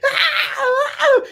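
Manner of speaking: put-on panicked kids yelling; crowd shouting.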